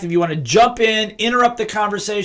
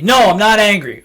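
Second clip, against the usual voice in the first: objecting upset person; 2 semitones higher, 5 dB louder than usual. Retold or imitated. Upset person correcting the listener, louder. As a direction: protest no I'm not angry. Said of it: "role of upset person".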